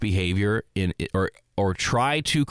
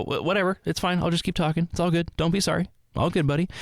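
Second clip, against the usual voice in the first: easygoing reassurance; 7 semitones higher than usual. Acted. Reassures an apologizing coworker.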